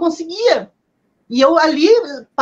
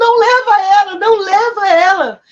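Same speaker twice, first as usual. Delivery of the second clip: high, desperate shout full of despair; 5 semitones higher, 4 dB louder than usual. Recounting shouting again at a man who kept walking away, retelling a desperate shout. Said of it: "e eu gritei de novo".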